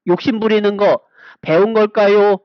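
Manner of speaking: ordinary delivery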